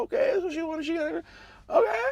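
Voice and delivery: mock an outraged old senator yelling; pissed-off shout. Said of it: "And he's pissed".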